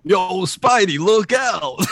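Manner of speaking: calling out. Acted. Extra calling out warning.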